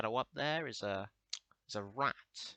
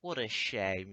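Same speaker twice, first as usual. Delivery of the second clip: mock depressed lament; 4 semitones lower, slower than usual. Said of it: "make the world a lot more depressing".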